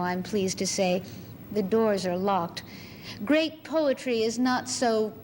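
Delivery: measured recital with deliberate pauses; poetry reading. Acted. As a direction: deliver it as a speaker addressing a captive audience. Recites own poem as embassy speaker.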